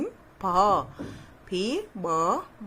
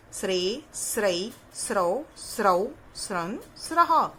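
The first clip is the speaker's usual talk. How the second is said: syllable drill. Shown as a demonstration. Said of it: "teacher recites syllable chart".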